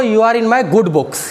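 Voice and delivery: slow, word by word dictation. Shown as a demonstration. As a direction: spell it out slowly for the class. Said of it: "यहाँ लिखना है आपको". (धीमे-धीमे लिखवाना)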